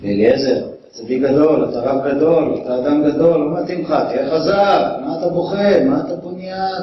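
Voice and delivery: tough-love pep talk. Pretend. Yochanan tells crying Eliezer to be a man, brisk scolding. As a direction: tell a weeping friend to toughen up. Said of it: "שאמר לו רבי יוחנן לרבי אליעזר".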